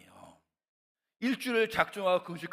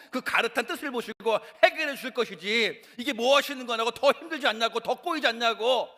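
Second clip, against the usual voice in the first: loud, higher complaining prayer; grumbling at God; 6 semitones higher, 5 dB louder than usual. Retold or imitated. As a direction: vent frustration at God out loud. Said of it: "막 원망하고 있었거든요". (하나님께 높고 크게 원망하는 목소리)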